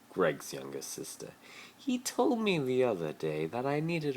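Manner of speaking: a hint of a posh rich boy pleading; Malfoy voice. Malfoy pleading with Harry to play his boyfriend, lightly voiced.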